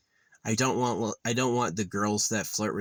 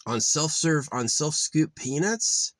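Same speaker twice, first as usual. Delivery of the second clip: retold indignant rant, pitched up; losing it; 5 semitones higher than usual. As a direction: re-enact an incredulous complaint. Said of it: "heard me lose my shit".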